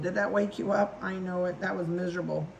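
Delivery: ordinary talk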